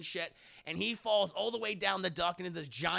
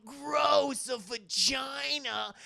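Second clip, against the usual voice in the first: disgusted; 6 semitones higher, much slower than usual. Retold or imitated. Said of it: "And going".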